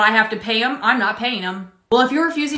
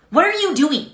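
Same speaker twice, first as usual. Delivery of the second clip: shrill outrage; 7 semitones higher than usual. Acted. Customer outraged again.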